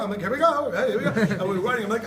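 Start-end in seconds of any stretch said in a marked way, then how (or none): 0.2-1.1 put-on high, loud, eager kid starting off; pumped up and ready to go; excited. Kid to parent before the ride, high excited voice.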